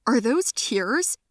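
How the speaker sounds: high, loud ecstatic scream; screaming like a madman. Retold or imitated. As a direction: shout for joy at the miracle. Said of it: "he screamed like a madman".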